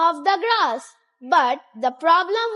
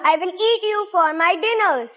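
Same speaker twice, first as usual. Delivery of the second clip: mild troll voice; 4 semitones higher than usual. Acted. Troll threatens biggest goat.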